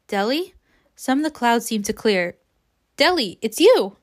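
measured audiobook reading with acted dialogue; story narration. A narrator's reading. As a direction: read the novel aloud, lightly voicing the dialogue.

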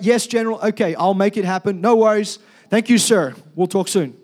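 brisk, eager-to-please officer on the phone; showy phone act. Acted. Colonel faking a call to the general to impress a private, showy.

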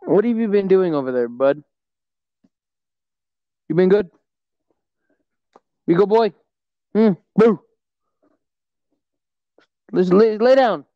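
gently lilting pet talk. Real, not acted. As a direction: check on a dog, lilting upward. Talking to a pet.

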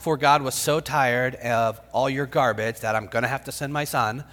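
lightly voiced weary complaint; fed-up parent. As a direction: grumble it like a tired parent. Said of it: "get that from your parents".

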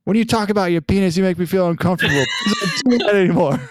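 high, loud mock-tearful child voice; imitated daughter scolding. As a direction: scold a sibling as an upset little girl. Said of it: "So she just turns".

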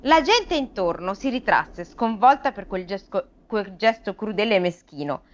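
measured read-aloud storytelling; expressive audiobook-style narration; story narration. A narrator's reading. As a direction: read the fable to listeners. Reads the fable aloud.

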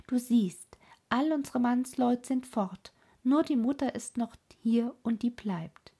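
put-on brash and bossy like a wild child; lightly voiced cheeky robber girl; bold robber girl. Robber girl plans, hugs mother.

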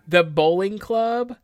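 giggling through words; laughing. Real, not acted. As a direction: laugh as you say it. Laughing while listing clubs.

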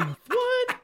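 very high, loud incredulous squawk; baffled disbelief. Retold or imitated. Storyteller replays his reply to a confused waitress, exaggerated disbelief. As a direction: exaggerate your shock as you retell it.

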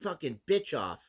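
a lightly voiced menacing chef; mock threat in a half-serious growl; menacing TV chef character. Pretending to threaten rivals on a cooking show, mock menacing. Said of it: "character that I have to live".

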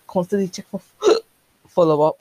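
talking through hiccups; hiccuping. Real, not acted. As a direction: hiccup breaking the words. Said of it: "Sorry, I keep hiccuping".

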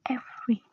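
softly weighted EVERY; stress on EVERY. Shown as a demonstration. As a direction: set "every" apart, quietly emphatic. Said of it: "emphasis on every".

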